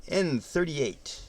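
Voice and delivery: slow drawn-out bingo call; bingo caller. Shown as a demonstration. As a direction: announce it like a bingo hall caller. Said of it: "Sound like a bingo caller".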